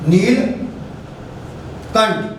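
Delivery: नीलकंठ stretched very slowly, syllable by syllable; drawn-out word. Shown as a demonstration. Teacher slowly sounding out a word for students. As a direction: draw out नीलकंठ so the break shows. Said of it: "बोल के देखिए आप".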